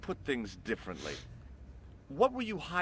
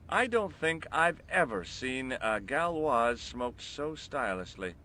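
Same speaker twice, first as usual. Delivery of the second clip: sarcastic; slower than usual. Acted. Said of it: "I'm being sarcastic".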